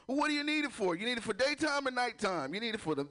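high, prying dispensary clerk; lightly voiced clerk; clerk questioning. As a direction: quiz the customer. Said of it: "where they have to analyze you".

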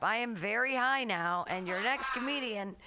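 spaced-out, stoned talk. Real, not acted. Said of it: "I got really high, and now I'm really high".

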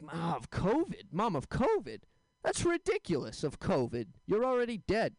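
exasperated son, pitch leaping up; acted disbelief. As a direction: balk at mom's worry in mock exasperation. Son's acted disbelieving retort to mom.

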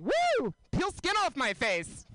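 high, loud overjoyed squeal into slow words; hammed-up giddy girl, cheering; way too happy. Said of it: "that was way too happy".

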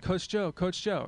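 put-on high, eager kid voice calling; lightly voiced kid calling out; little kid calling. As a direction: tug at the coach for attention. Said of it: "He's like".

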